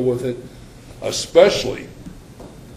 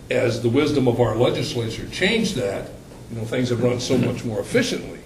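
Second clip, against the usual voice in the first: sarcastic. Real, not acted. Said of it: "in sarcasm".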